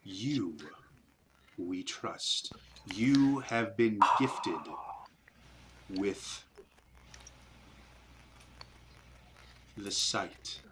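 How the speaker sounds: slow, hushed alien creature voice; eerie spider voice. Acted. GM voicing the spiders to the party, slow eerie creature. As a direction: speak like an ancient hive creature, slow and cold.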